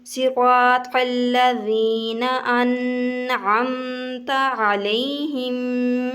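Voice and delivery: drawn-out melodic recitation; slow Quran recitation. Shown as a demonstration. Teacher recites the verse to students, slow melodic chant. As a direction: chant each syllable slowly and evenly. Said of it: "teacher recites verse".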